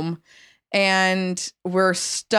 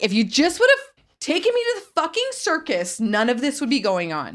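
retold screaming; 6 semitones higher than usual. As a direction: imitate yourself screaming at an ex. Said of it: "So I start screaming at my ex-boyfriend".

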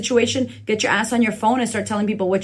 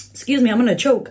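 mock nervous. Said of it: "as honestly as I'm nervous to get on social media".

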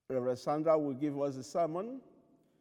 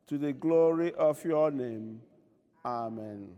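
prayer of confession. Acted. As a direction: confess humbly on behalf of all.

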